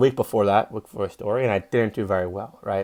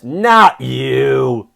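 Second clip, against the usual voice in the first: curt rejection; 7 dB louder than usual. Retold or imitated. Booker rejecting him, quoted.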